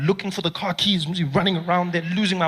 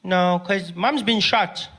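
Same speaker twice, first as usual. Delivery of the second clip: calm slow news; much slower than usual. Retold or imitated. Kid delivers news flatly.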